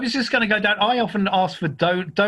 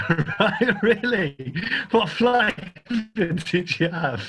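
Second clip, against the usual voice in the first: amused disbelief; 2 semitones higher, much slower than usual. Real, not acted. Co-host tickled by Viennetta as a Christmas treat, laughing disbelief. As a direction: question it while giggling.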